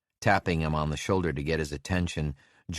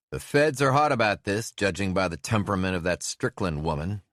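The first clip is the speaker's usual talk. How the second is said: higher, louder call over the engine roar; raised voice above a roaring engine; shouting over engine; 4 semitones higher, 3 dB louder than usual. Acted. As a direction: shout to be heard over a motor. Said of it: "shouting over the roar of the engine".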